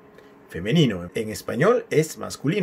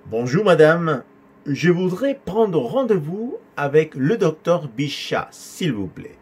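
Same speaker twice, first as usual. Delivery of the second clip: higher, slow but flowing teaching delivery; measured model dialogue; 3 semitones higher, slower than usual. Shown as a demonstration. Teacher giving the student's reply to receptionist, measured flow. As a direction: model the caller's line in one steady flow.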